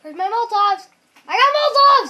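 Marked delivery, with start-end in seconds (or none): 1.3-2.1 loud, high gloating shout; crowing at full voice; excited bragging. Real, not acted. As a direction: announce it triumphantly. Bragging about game loot.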